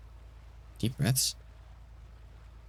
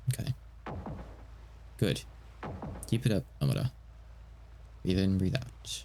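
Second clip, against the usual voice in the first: gentle; 6 dB quieter than usual. Shown as a demonstration. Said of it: "I'm gonna be gentle".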